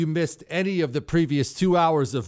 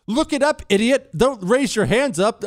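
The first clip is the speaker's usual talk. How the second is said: higher, louder playful yell; yelling at Chris; 7 semitones higher, 4 dB louder than usual. Real, not acted. Host yelling at producer Chris, mock-annoyed. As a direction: bark it across the studio at your producer. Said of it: "I had to yell at Chris".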